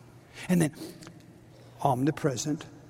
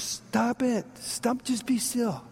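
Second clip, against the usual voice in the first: the Lord commanding; 6 semitones higher, slower than usual. Acted. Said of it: "And the Lord says".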